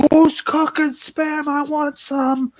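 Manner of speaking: put-on high, slow old lady call from upstairs; high drawn-out grandma voice calling down; grandma yelling down. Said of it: "yells down and says".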